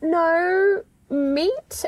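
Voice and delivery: a mock plaintive "No meat?" rising; a hint of a creepy customer; imitating the customer. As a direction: whine it out like the lost customer. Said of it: "but he was like".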